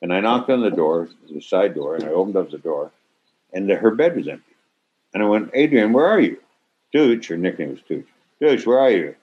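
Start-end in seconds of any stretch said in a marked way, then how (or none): 5.5-9.2 calling out. Retold or imitated. Calling for missing daughter.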